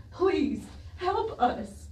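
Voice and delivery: barely getting the words out; broken plea. Real, not acted. Final plea to the official.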